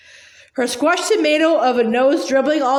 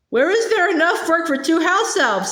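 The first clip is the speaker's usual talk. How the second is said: higher elf voice, doubtful; lightly voiced sceptical she-elf; a hint of a worried Winky; Winky's retort; 5 semitones higher than usual. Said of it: "said Winky".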